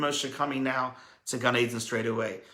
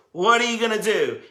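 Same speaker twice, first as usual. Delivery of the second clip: higher, louder pointed challenge; challenging question; 7 semitones higher, 7 dB louder than usual. Pretend. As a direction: put it to them as a dare. Hashem challenging the listener.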